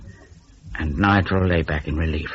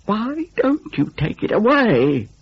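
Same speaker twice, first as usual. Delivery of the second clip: irritable; 13 semitones higher, slower than usual. A narrator's reading.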